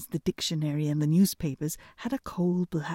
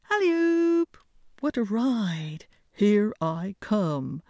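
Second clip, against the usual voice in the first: loud, high whoop, then slower; joyful shout; 3 semitones higher, 3 dB louder, slower than usual. A narrator's reading. Hans gallops past, loud joyful shouting. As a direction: whoop it out riding the goat. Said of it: "shouted Clumsy Hans, singing so loud".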